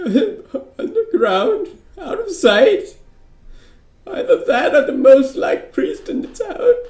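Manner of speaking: blubbering through tears. Questioned about where a necromancer would hide: crying while talking. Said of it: "You're gonna need to stop crying. I can't understand you".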